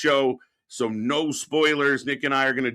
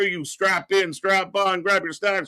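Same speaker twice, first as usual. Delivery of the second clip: drawn-out hype; 6 semitones higher, slower than usual. Acted.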